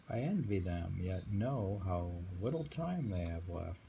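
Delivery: slow, measured title reading; poem reading. Acted. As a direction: savour each phrase of the poem. Reads the next poem.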